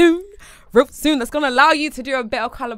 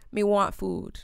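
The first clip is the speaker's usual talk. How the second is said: attempted Jamaican accent; 5 dB quieter, much slower than usual. Shown as a demonstration. Friend trying an accent on request, amateur Jamaican accent. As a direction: have a half-hearted go at Jamaican. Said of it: "Let me try my Jamaican accent".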